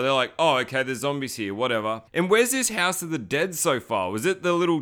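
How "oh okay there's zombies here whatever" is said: mock-calm, unbothered acceptance; lightly imitated shrug, sinking at the end; calm indifference. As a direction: say it as if zombies were routine. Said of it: "so calm about it".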